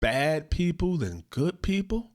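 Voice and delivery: slow, heavy repeat of the words; slow, dejected echo of his words; saddened. Retold or imitated. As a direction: let the hurt sink in as you say it. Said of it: "That makes me sad".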